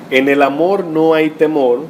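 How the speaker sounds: slow, weighty reading of the verse; scripture read out slowly for emphasis; slow emphatic reading. Shown as a demonstration. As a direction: lean on amor and temor, slowly. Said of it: "oigan bien".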